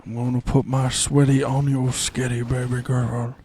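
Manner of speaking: low, soft sleazy croon; creepy husband. Pretend. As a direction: purr it like a creep. Acted couple dialogue.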